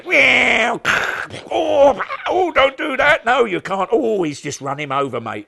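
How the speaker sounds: high, loud child playing with toys; imitating excited child. Son playing on the Sooty set, high and loud. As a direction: shout it high like a kid lost in play. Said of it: "this is my boy".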